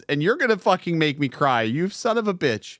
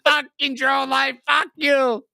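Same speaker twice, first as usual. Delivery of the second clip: higher, laughing yell; laughing shout; 9 semitones higher, slower than usual. Real, not acted. Streamer cursing the rival while laughing.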